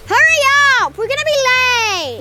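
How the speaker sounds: mock rushing parent call; hurried parent. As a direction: call out like a rushed dad. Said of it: "Daddy's favorite phrase".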